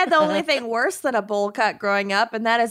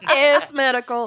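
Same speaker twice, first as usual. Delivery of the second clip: laughing; 2 semitones higher than usual. Pretend. Laughing repeat.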